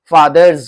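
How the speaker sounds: फादर्स said "faadarz", with a buzzed z; careful model "faadarz" for फादर्स; voiced z ending. Shown as a demonstration. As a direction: finish फादर्स on "z", not "s". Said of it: "apostrophe एस लगाएंगे तो ज".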